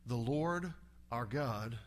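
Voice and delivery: mild hushed Moses. Retold or imitated. Moses back from the mountain, speaking softly. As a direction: say it gently, like a solemn charge. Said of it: "he comes back and says".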